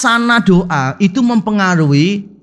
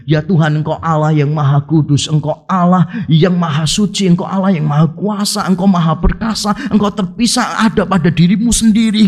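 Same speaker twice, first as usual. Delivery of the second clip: long-winded prayer. Acted. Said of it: "doanya kurang lebih begini".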